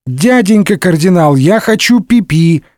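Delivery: put-on a small child asking to pee; little boy. Second Louis interrupting the cardinal, whiny child voice.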